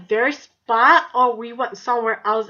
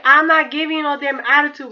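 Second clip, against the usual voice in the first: louder, defiant retold comeback; mildly heated, acted-out protest; indignant retort; 3 semitones higher, 6 dB louder than usual. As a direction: fire back as if re-enacting an argument. Retold argument over her attitude.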